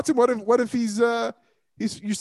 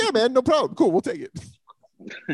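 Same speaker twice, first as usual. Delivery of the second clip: mock easy GM; 4 semitones higher, slower than usual. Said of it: "they're gonna be like".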